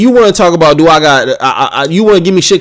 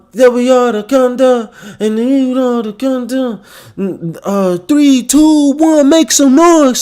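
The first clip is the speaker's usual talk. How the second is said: higher hype-man countdown, half mocking; hype intro announcer; 6 semitones higher than usual. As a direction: imitate a pumped-up show intro calling for noise. Imitating the show's new intro.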